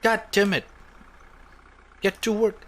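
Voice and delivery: high loud barking of orders; hammed-up furious boss; angry shout. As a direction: yell at the worker to get moving. Screaming at coworker in game.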